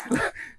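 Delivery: short, soft voiceless laugh; incredulous laugh. Real, not acted. Man accused of playing around, incredulous laugh. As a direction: breathe out a laugh in disbelief.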